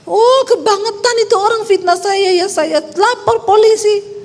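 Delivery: high, indignant mock complaint; mock outrage. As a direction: play the offended believer. Mock angry reaction to slander. (protes pura-pura tersinggung)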